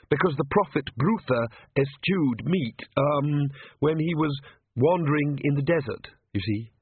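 high, hesitant nervous priest voice; timid priest. Acted. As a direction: stammer it out like a frightened cleric.

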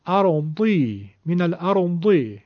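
slow "ارضی" with a thick d before the i; heavy Dad with kasra. Shown as a demonstration. Teacher showing the Dad with kasra, slow heavy d. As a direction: keep the d heavy in "ارضی", drawn out.

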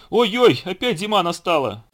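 high, loud alarmed cry; frightened. A narrator's reading. Bear cub running to mother in the den, frightened. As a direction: exclaim high in storybook alarm. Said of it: "Испугался медвежонок".

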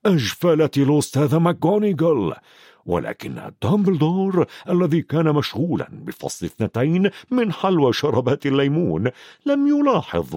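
ordinary delivery, nothing marked

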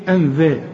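"أنذا" with thin dhal, a near e; light dhal. Shown as a demonstration. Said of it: "ذال ولا ظا".

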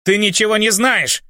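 high, hot-tempered retort; heated outburst. A narrator's reading. Bart hotly retorts to the demon, high heated outburst. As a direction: fire it back at the demon in a temper. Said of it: "запальчиво ответил ему Барт".

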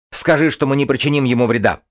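высоко и громко, с напором; кричи, чтобы успеть остановить; крик. A narrator's reading. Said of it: "закричал Джоран". (громкая мольба)

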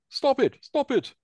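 pleading alien voice. Acted. Frog alien begs them to stop.

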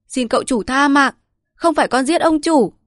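high, loud desperate begging, rising further; terrified pleading. Acted. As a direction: beg harder, voice climbing. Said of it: "sợ vãi linh hồn rối rít".

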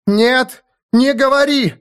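very high, desperate cry; frantic plea. A narrator's reading. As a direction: implore him not to speak. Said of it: "взмолилась Аланис".

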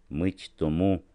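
plain reading voice

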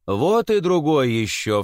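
mild frightened cry. Acted. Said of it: "вскрикнул со страхом ткач".

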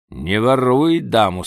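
usual speaking voice

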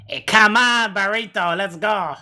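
high coaxing pet voice; baby talk. Acted. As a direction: coax it like talking to a pet. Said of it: "Why do you speak to him like that?".

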